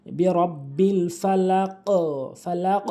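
ফালাক with a bounced, echoing final q; qalqala. Shown as a demonstration. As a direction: push off the last sound of ফালাক. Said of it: "কলকলা মানে ধাক্কা দিয়ে পড়া". (ফালাক শেষে ধাক্কা দিয়ে)

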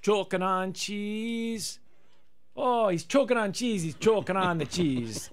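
slow, sung Baby Reindeer impression. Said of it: "Sing Choking on Cheese in the Baby Reindeer voice".

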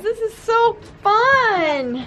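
slow, high, delighted gush. Real, not acted. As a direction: savor the fun, pitch up. Excited on the loft.

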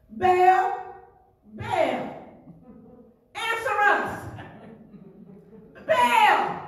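plead, then yell the name Baal; crying out to Baal. Acted. Prophets crying out to their silent idol Baal, mock calling. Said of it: "They shouted".

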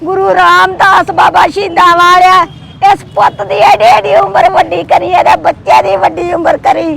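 earnest blessing prayer, steady chant-like flow; heartfelt prayer. Real, not acted. (ਅਰਦਾਸ ਕਰਦੀ ਆਵਾਜ਼)

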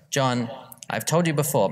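a mum gently scolding her son; mum's voice. Retold or imitated. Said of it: "read the full thing in my mum's, uh, voice".

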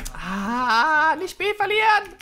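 high, loud panicked cry; panicked shout. Real, not acted. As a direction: yell it in sudden alarm. Panic over losing point B. (panischer Schrei)

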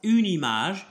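French words drawn out syllable by syllable; slow teacher's model. Shown as a demonstration. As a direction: model the phrase very slowly for a learner. Teacher repeats French terms slowly.

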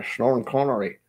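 slushy Scottish impression; Sean Connery. Streamer slipping from one Scot to another, slushy Scottish impression. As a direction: slur the s into "sh" with a Scottish burr. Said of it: "now I'm slipping into, uh, Sean Connery".

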